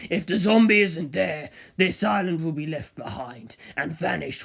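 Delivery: a lightly voiced, slowish, serious mentor; calm but urgent, warning the narrator; Kaz's warning. Kaz warning the narrator not to kill the zombie, serious.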